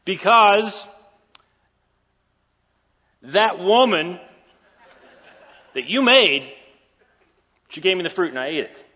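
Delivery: a squeaky excuse pointing at the woman; whiny blaming Adam. Acted. Adam blaming Eve comically.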